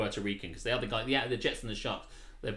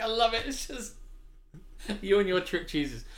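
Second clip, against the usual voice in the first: high-pitched, excited exclaiming; real amused excitement, pitched way up; delighted reaction; 11 semitones higher, 3 dB louder than usual. Real, not acted. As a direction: gush with delight at a running joke. Delighted by a callback.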